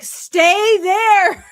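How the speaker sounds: high, loud mock shout; urgent call. Pooh tells sad Eeyore to wait, urgent mock shout. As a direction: call it out as an order.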